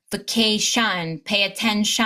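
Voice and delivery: "vacation", "attention" ending in a full "shun"; overpronounced schwa. Shown as a demonstration. Teacher imitating students, schwa overpronounced. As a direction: give the last syllable of "vacation" and "attention" a heavy "uh". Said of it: "so many students overpronounce the schwa".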